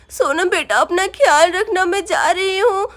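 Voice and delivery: weeping goodbye and sobbing reply; dying mother and crying daughter say goodbye; tearful farewell. Acted. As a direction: cry through the parting words.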